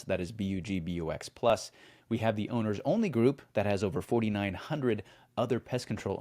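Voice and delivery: brisk podcast promo read. Acted. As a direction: read it like a sponsor spot.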